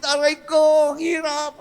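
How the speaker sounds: high, loud anguished begging; tormented voice begging for forgiveness; pleading damned soul. Acted. Voicing damned souls begging.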